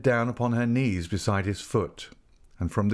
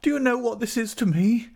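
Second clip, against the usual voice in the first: high anguished outcry; distraught wife's high plea; crying out; 4 dB louder than usual. A narrator's reading. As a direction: demand it desperately, pitched very high. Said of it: "she cried out".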